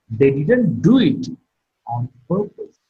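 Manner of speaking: falling tone on purpose; statement ending in a clear fall. Shown as a demonstration. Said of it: "All these are the statements in English".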